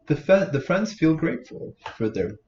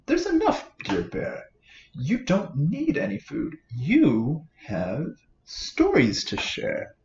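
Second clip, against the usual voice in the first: squeaky mouse voice; 3 semitones higher than usual. Acted. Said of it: "Mouse squeaks".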